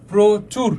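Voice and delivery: প্রচুর with a short halt after "pro"; stop inside word. Shown as a demonstration. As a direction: say "pro", stop briefly, then "chur" for প্রচুর. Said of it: "থেমে গেছি কিন্তু".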